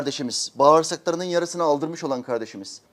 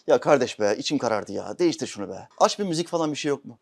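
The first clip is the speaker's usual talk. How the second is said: annoyed passenger; 2 semitones lower than usual. Retold or imitated. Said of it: "arkadaş radyoda ayet meali dinliyor".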